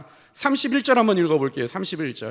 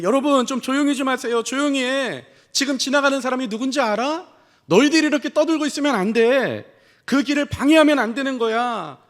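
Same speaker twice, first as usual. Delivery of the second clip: mildly stern acted telling-off; imitated scolding; 3 semitones higher than usual. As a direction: hush a noisy crowd, playing an annoyed follower. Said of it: "이 맹인들을 지금 잠잠하게 만드는 거예요. 꾸짖어". (꾸짖는 흉내)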